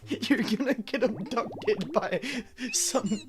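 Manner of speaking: mock concern. Real, not acted. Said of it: "I'm so concerned".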